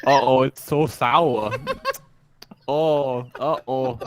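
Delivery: put-on Sour Boy voice. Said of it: "the speaker's Sour Boy impression".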